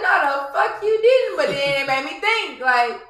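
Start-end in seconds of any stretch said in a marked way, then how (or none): 0.0-1.4 retold indignant snap. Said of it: "I was like".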